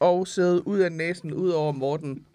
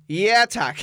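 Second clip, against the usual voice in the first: laughing, slightly raised mock "yes, please"; laughing self-quote; 4 semitones higher, 4 dB louder than usual. Guest confesses to the hosts what slipped out in bed, laughing. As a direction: quote yourself blurting it out, through a laugh.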